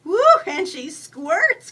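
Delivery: high, loud, drawn-out raccoon whoop; excited squeak. A narrator's reading. Raccoon cheers the woman blowing her nose, squeaking. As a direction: squeal it slowly like a thrilled little critter. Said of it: "Critter squeaks".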